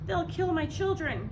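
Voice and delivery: high, loud terrified mother's cry; frightened cry. A narrator's reading. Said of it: "cried Missus Fox".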